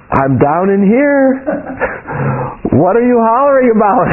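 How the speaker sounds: retold Spirit's voice, spacing out "I'm down in here"; clear and distinct. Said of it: "very clearly and distinctly".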